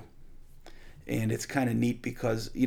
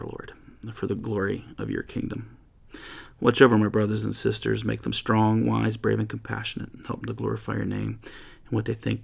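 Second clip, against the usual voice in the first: earnest, unhurried prayer fading toward the amen; closing prayer. Acted. Pastor closing the Bible study in prayer, earnest and hushed. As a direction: pray it sincerely, letting the last words drop away.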